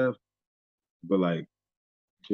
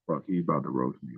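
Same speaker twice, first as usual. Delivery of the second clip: low, softer aside to himself; wary inner thought; 6 semitones lower, 5 dB quieter than usual. Retold or imitated. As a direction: voice a retold private dread under your breath.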